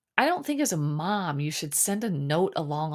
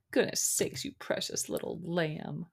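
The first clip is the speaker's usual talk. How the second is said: soft doting coo, softer; cooing softly; 5 dB quieter than usual. Pretend. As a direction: coo like to a baby. Cooing baby talk at the contestant.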